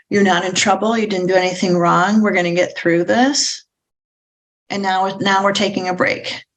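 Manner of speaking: gentle, reassuring promise. Shown as a demonstration. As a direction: soothe the child so it calms down. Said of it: "the words that you have to say are".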